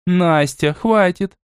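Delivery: a firm grandmotherly stop; a grandmother stopping a granddaughter, sternly. Acted. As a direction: cut her off strictly. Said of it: "строго произнесла бабушка".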